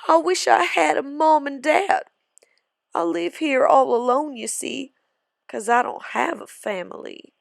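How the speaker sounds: a touch of tears; sobbing. Acted. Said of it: "sobbed Bill".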